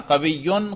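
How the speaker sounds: قویون said as "qawiyyun"; nominative ending. Shown as a demonstration. Teacher giving a second example, nominative ending. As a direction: end قویون in "-un" over a doubled y. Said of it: "تینوں طرح کے اعراب لفظی آتے تھے".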